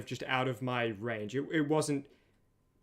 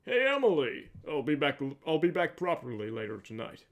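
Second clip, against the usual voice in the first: Jack of all trades. Shown as a demonstration. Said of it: "that voice isn't an attempt at Batman".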